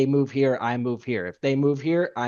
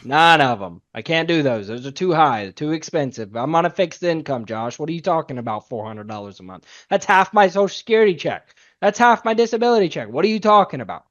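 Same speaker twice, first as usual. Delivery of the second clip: a client getting louder and more upset over the price; 4 dB louder than usual. Retold or imitated. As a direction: play the client complaining about her fixed income. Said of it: "most typical response that you get".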